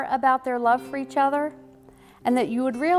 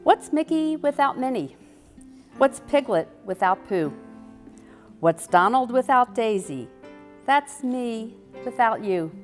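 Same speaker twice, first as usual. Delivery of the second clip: reciting a rhyme; 3 semitones higher than usual. Shown as a demonstration. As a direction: read it like a playful verse. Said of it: "share one of their favorite Disney rhymes".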